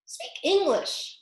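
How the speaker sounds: high, slow impatient demand; eaglet. A narrator's reading. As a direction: cut the Dodo short. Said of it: "said the eaglet".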